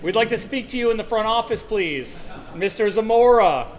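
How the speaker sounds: formal PA announcement voice; loudspeaker voice. Pretend. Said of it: "Is that, like, my loudspeaker voice?".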